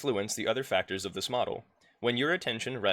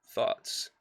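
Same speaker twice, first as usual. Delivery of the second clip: whispered heading. Shown as a demonstration.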